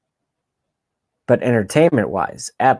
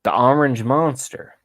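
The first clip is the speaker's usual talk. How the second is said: Biden impression; 3 semitones higher than usual. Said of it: "Was that at my Biden parody?".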